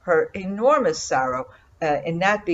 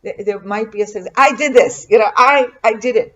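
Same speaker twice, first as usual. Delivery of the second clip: proud boast; 3 semitones higher, 5 dB louder than usual. Retold or imitated. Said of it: "you could say".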